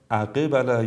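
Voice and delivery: full "i" vowel after ق, اقبل as "aqibala"; wrong qalqala. Shown as a demonstration. Tajweed teacher warns learners, saying اقبل wrongly as "aqibala". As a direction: overdo the bounce in اقبل into a kasra on ق.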